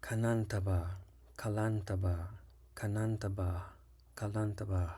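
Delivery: Kanantaba with a high or falling tone on the second syllable. Shown as a demonstration. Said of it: "The second syllable has a high or descending tone".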